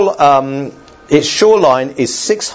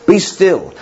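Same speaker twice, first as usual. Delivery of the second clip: stern rebuke; 5 semitones higher than usual. Acted. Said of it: "it was quite a stern, it was a rebuke".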